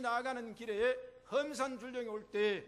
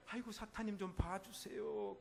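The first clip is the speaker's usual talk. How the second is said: mock pleading; 4 dB quieter than usual. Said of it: "그래야지".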